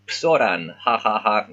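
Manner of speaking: teasing sing-song jeer at the name; mocking classmate. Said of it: "He's making fun of the guy's name".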